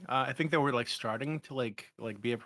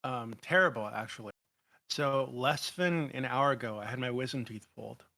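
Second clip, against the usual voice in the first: speaking with a numb mouth after dental surgery. Real, not acted. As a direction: talk through a numb, anesthetized mouth. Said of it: "my mouth is numb".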